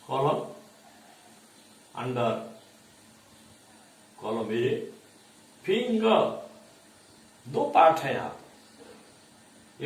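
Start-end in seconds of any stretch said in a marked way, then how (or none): 5.6-6.2 "फिंगर" with फिं high and falling after; first-part stress. Shown as a demonstration. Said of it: "उच्चारण अधिक कहाँ आ रहा है".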